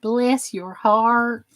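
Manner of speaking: "Bless your heart" stretched slow in a Southern drawl. Shown as a demonstration. Explaining Southern phrase to chat, slow drawl. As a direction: lean into the Southern phrase, slowly. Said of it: "It doesn't always mean kiss my ass".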